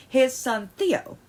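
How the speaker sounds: tense, clipped with anger; angry. Real, not acted. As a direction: say it through real anger. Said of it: "my voice is apparently on mad".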